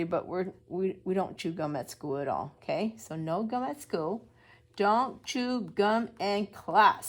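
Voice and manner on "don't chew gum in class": loud, slow scolding; stern teacher. Acted. Teacher telling David off for chewing gum, loud and slow. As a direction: spell out the rule to a gum-chewing child. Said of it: "says his teacher".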